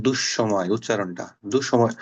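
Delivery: দুঃসময় slowly, dush-shomoy with a held sh; দুঃসময়: lean on a doubled শ, not a single s; দুঃসময় spelled out slowly with double sh; doubled consonant. Shown as a demonstration. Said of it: "একটা স উচ্চারণ করলে হবে না".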